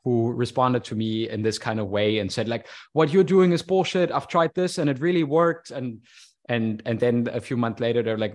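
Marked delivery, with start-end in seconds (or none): 2.9-5.7 higher-pitched mock protest from a convinced critic; imitated dismissive challenge. Online critic telling the speaker off about their methods, dismissive. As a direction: push back insistently, voicing someone else's objection in a raised pitch. People confronting speaker with bullshit claim.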